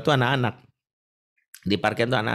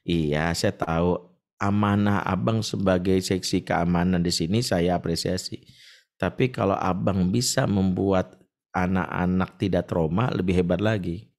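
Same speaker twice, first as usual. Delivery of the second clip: calm reassuring reply; 4 semitones lower than usual. Retold or imitated. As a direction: gently talk the man round. Speaker replays calm reply.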